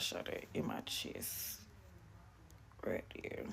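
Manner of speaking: soft unvoiced whisper. Real, not acted. Storyteller pointing at her wound to viewers, whispering. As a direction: drop to a breathy hush to show the spot. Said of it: "showing where she was shot".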